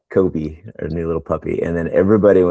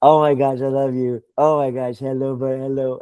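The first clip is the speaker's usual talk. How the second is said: over-the-top excited welcome, pitched way up; gushing overjoyed greeting; 7 semitones higher than usual. Retold or imitated. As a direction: squeal a happy hello at someone you adore. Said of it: "someone be like".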